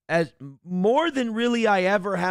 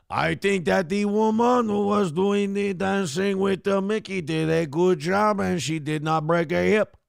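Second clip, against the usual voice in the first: a light put-on French accent; French impression. Streamer answering viewer's request in a mild mock French accent. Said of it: "using your French impression".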